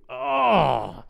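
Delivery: high, drawn-out mock groan; dismayed groan. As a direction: let out a long comic "oh" of dread. Dreading the prayer just promised.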